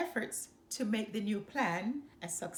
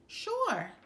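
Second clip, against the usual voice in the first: chiming in; 9 semitones higher than usual. A narrator's reading. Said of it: "his sister chimed in".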